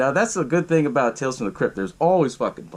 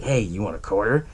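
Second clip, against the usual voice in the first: mock creepy stranger, lower and hushed; creepy offer; 6 semitones lower than usual. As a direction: offer the quarter with a sly creepy lilt. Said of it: "kinda creepy the way how he did it".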